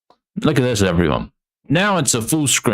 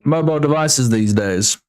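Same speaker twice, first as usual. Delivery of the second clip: realization voice; 6 semitones higher than usual. Retold or imitated. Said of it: "I was like".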